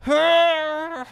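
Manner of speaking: loud, very high squeal; cartoon villain yeah. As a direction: yell it like a gleeful tiny villain. Mock villain cheer.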